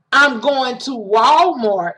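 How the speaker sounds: slow, with Walmart stretched out; name "Walmart" slowly and pointedly; stress on Walmart. Shown as a demonstration. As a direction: land firmly on "Walmart". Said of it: "putting emphasis on the".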